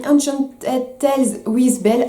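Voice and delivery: slow, clumsy English accent from a French speaker; bad English accent. Real, not acted. French vlogger reading an English ride name, bad English accent. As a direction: stumble through the English title with a heavy French-English accent. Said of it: "mon accent anglais est dégueulasse".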